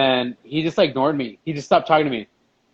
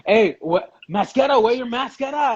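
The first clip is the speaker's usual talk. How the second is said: lightly imitated nag, higher pitched; mock nagging; 6 semitones higher than usual. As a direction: mimic someone pestering about a mask. Mimics someone demanding a mask.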